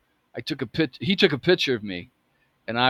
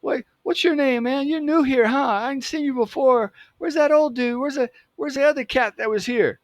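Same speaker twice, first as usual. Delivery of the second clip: high-pitched cool-cat voice; cool dude; 12 semitones higher than usual. Retold or imitated. Cool dude greeting the new kid behind the counter, imitated high. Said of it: "he's a pretty cool, cool dude".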